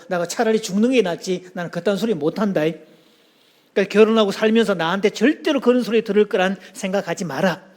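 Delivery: put-on Gyeongsang accent. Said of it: "부산의 한 남자가".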